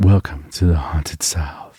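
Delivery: slow, whispered spooky voice. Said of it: "that Haunted South intro you did years ago".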